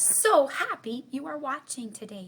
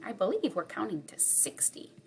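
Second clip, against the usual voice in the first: whisper; 6 dB quieter than usual. Real, not acted. Aside while counting.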